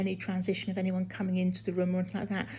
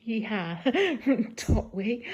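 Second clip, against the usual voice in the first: excited cheer; 3 semitones higher, 5 dB louder, much slower than usual. Real, not acted. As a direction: whoop then a laugh. Celebrating a big wee.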